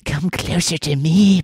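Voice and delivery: put-on high, slow eerie little girl; creepy child voice. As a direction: beckon slowly like a ghostly child. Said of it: "her creepy child voice".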